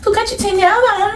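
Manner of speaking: high, sing-song mock complainer; mocking critic. Woman imitating whoever scolds her sharp tongue, mocking high voice. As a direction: whine it up high, like a scandalised critic. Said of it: "Elle va dire".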